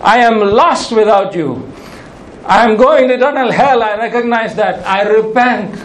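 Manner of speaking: mildly acted penitent plea to God; crying out for mercy. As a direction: plead like a sinner repenting, without shouting. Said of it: "cries out to God for mercy".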